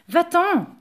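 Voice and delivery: high, loud dismissal; exasperated order. A narrator's reading. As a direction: snap it as a king out of patience. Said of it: "ne put y tenir".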